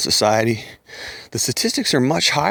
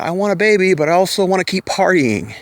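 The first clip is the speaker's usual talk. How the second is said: higher, whiny mock woman voice; mocking party woman; 5 semitones higher than usual. Mocking women who want babies and partying, higher and whiny. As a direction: lightly parody a woman wanting it all.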